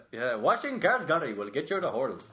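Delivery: put-on friend's East Indian accent, Irish tinge. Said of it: "Your East Indian accent is very Irish".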